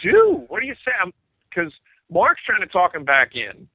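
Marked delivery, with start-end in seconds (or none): 0.0-0.9 bewildered. Retold or imitated. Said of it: "you're like".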